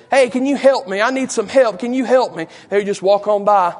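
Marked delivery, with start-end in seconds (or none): 0.1-2.5 crying out. Acted. Lame man begging as people walk on by, crying out. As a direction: keep calling after passers-by for help. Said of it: "I believe that man was crying".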